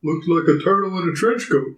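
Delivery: offhand, unbothered imitation; nonchalant. Taxi driver answering the shocked passenger, nonchalant. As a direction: toss it off like nothing unusual. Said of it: "not so nonchalantly, just like, Yeah".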